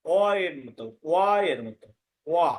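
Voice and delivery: "ওয়া" said as a gliding "wa"; w-sound. Shown as a demonstration. Teacher showing ba-phala sound, "ওয়া" as wa. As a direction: round the lips into "ওয়া", wa. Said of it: "তাহলে এর উচ্চারণ হবে".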